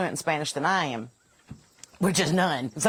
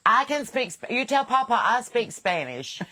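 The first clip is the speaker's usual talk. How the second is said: imitating a child; 6 semitones higher, slower than usual. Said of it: "he's like".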